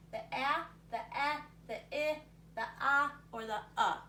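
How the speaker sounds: each short vowel sounded out separately, "ah, eh, ih, aw, uh"; short vowel sounds. Shown as a demonstration. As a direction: recite the five short vowel sounds one by one. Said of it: "Those are your short vowels".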